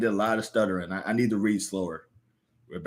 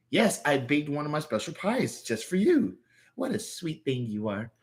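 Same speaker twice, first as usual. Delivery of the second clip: put-on sweet old grandma; 6 semitones higher than usual.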